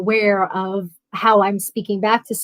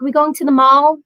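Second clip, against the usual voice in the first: higher-pitched imitation of a New York accent; 3 semitones higher, 4 dB louder than usual. Telling how she'd talk in California, imitated New York accent. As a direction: mimic hardcore New York coffee-talk vowels. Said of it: "hardcore New York accent when I was younger".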